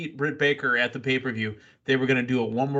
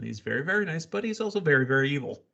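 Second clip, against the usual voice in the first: deadpan; faster than usual. Retold or imitated. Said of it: "Excalibur in a deadpan voice".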